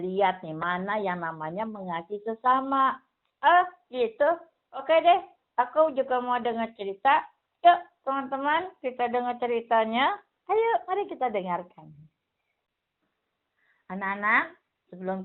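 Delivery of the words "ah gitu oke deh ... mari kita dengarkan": a hint of a keen little boy; the puppet kid calling friends to listen; light puppet-boy voice, eager; lightly voiced eager child puppet. Puppet Billy invites friends.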